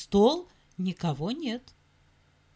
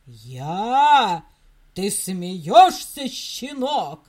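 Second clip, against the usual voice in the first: big dog voice; 5 semitones lower, 8 dB louder, much slower than usual. Acted. Big dog booms at puppy.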